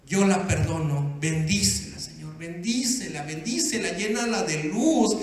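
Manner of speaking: understated acted tearful plea; tearful prayer. Husband after three hours crying, blessing his wife, mildly tearful. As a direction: plead earnestly, building toward the end. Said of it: "Después de las tres horas en el suelo llorando, dijo".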